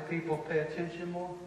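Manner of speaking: hushed demonstration for the congregation; lean-in quiet voice; talking quietly. Shown as a demonstration. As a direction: drop it very soft and low. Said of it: "if you talk quietly".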